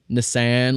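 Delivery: Nissan said with a short flat "san"; actor's pronunciation. Retold or imitated. Host quoting Orlando Bloom's repeated word, imitated pronunciation. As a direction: say Nissan as niss-AN, short vowels. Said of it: "that I would not say it".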